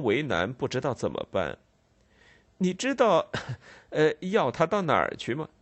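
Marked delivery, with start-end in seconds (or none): 2.6-5.5 hesitant, chuckling musing; thoughtful Snagsby. Acted. Snagsby musing to the constable, hesitant and chuckling. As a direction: hem and haw with little nervous laughs.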